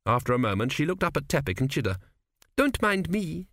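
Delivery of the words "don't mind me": cheerful and high; bright. A narrator's reading. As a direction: say it brightly, breezily. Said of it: "she said brightly".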